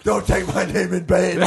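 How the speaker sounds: muffled movie-villain imitation; Bane. Co-host mimics God as Bane, villain voice. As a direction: do a comic villain voice.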